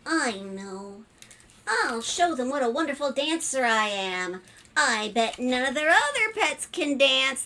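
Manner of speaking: a hint of a proud storybook spider; lightly voiced eager spider, boastful. Spider planning to impress the family, lightly voiced boast. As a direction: show off lightly as a little spider.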